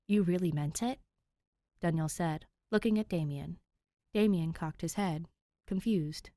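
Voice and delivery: steady read-aloud storytelling voice; calm narrator reading a fanfic to listeners; story narration. A narrator's reading. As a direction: read it like a bedtime chapter.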